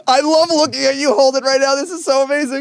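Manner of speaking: talking through laughter; giggling while talking; laughing. Real, not acted. Co-host laughing at the cup.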